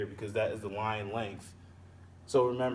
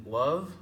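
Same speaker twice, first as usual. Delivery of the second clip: "love" held out as the strong syllable; "love" stressed, with a lift; stressed syllable alone; 2 semitones higher, 4 dB louder than usual. Shown as a demonstration. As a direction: isolate "love" and give it weight. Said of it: "The underlined part is the stressed part".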